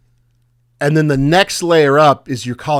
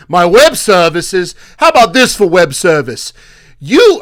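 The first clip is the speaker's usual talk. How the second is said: angry retort; 5 semitones higher, 6 dB louder than usual. Retold or imitated. Rick mocks the caller's pitch before cursing him out, angry yell. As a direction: throw the words back in fury. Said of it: "And he goes".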